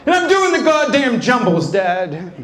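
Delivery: mock angry son; annoyed shout.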